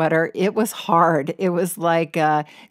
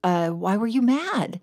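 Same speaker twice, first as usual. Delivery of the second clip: mock surprise; 3 semitones higher than usual. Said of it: "And I was like".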